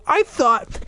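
high, lightly voiced boy; a hint of an unsure muttering boy; muttering little brother. Brother doubting what he heard, muttering high. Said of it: "he muttered".

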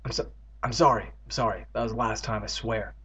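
low, soft sheepish mumble; sheepish apology. Real, not acted. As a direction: drop low and quiet, apologising. Narrator apologises for swearing.

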